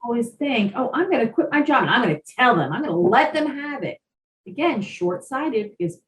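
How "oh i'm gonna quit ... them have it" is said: fast, higher-pitched imitation of a fed-up quitter; hammed-up defiant rush; mock defiance. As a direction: play someone itching to tell them off. Acted quitter planning to tell off.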